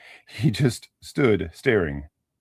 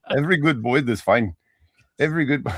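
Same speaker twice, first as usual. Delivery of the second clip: put-on 1 Irish accent; 5 semitones higher, 3 dB louder, faster than usual. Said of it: "deal with this accent".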